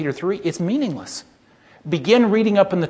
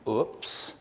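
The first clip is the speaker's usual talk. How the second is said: whispered oops; 4 semitones lower, 8 dB quieter than usual. Pretend. Mock embarrassed aside.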